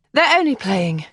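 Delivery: breathless. Acted. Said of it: "Kathleen said breathlessly".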